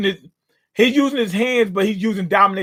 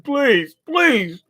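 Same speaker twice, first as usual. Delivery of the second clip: begging; 5 semitones higher than usual. Retold or imitated. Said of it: "He's begging for forgiveness".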